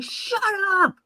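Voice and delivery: very high, held-back mock yell; mock screamed retort. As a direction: squeal it as an imitated scream, without volume.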